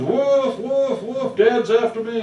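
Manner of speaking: yelping dog voice, high and loud; panicked dog. Retold or imitated. Teller voicing the terrified dog fleeing the bear, high yelps. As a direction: voice the dog's frantic barking. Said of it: "The dog is screaming to high heavens".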